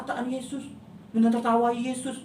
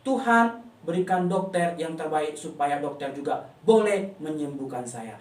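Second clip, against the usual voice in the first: put-on child's prayer; 6 semitones lower than usual. Shown as a demonstration. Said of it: "Dan Tuhan juga".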